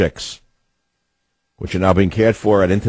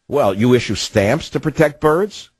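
incredulous echo; 4 semitones higher than usual. Real, not acted.

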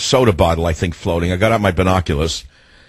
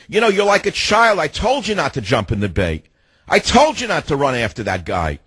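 mock-stern, higher-pitched telling-off; retold scolding; 4 semitones higher than usual. Owner telling off his runaway dog, mildly mad scolding. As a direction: scold like a parent with a naughty child. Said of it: "I got mad at him this time".

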